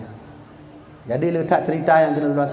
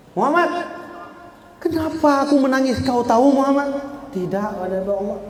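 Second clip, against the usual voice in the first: higher, pleading voice of weeping prophet; tearful Musa; 6 semitones higher than usual. Acted. Musa, weeping, asks Muhammad why he cries, raised and pleading. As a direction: lift it up and plead through the tears.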